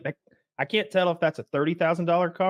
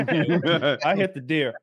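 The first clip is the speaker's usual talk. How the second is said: slow, laughing admission; 3 dB louder, much slower than usual. Real, not acted. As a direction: laugh through the confession.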